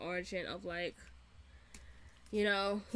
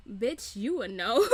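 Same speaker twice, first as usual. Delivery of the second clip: sassy retort; 6 dB louder than usual. Retold or imitated. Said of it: "I was just like".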